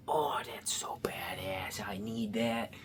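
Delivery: put-on slow, drawn-out accent for Mischief; put-on character accent. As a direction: voice him with a lazy, stretched accent. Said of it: "giving him an accent like this".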